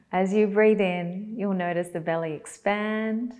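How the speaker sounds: calm guidance in short, spaced-out phrases; guided meditation. Acted. Teacher guiding belly breaths, unhurried guided meditation. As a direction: leave long silences for them to breathe.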